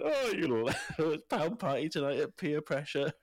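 a hill chuckling at students; playful mountain musing; mock mountain voice. Speaking as the mountain.

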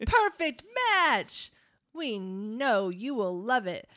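hammed-up commercial announcer, laughing through it; ad read. Cohost reads the popcorn bag as a mock commercial.

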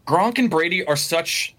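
talking through hiccups; hiccuping mid-sentence. Real, not acted. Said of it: "oh, excuse me, I have the hiccups".

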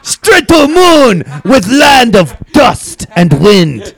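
put-on very high, loud, slow Asian accent; shouted Asian accent. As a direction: bellow it in a broad Asian accent. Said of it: "doing a really thick Asian accent".

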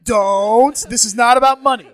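hammed-up party host address; loud announcement. Voicing own bar mitzvah speech.

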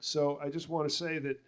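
ordinary talk, nothing marked

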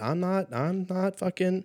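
rising mock panic shout; panicked outburst. Debtor yelling back at the collector in mock panic.

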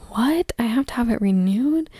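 mock-clueless innocent mom; playing innocent. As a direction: act as if it's news to you. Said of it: "play it as the, like, innocent, young, innocent mom".

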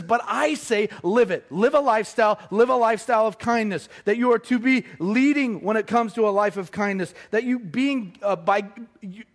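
real preacher's fervour, building until words run out; worked-up, emphatic preaching; all excited. Real, not acted. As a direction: drive each phrase home, getting carried away. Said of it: "I got all excited".

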